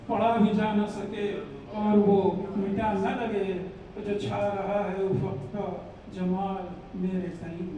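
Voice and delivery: measured mushaira verse with pauses; ghazal recitation. Acted. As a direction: recite line by line, repeating for the audience. (ग़ज़ल पढ़ने का अंदाज़)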